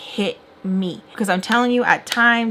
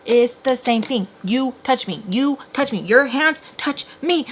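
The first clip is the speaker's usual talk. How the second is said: higher, emphatic word-by-word accusation; mock yell without much more volume; retold yelling; 4 semitones higher than usual. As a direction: hammer each point home, imitating an argument. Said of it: "So I'm, like, yelling".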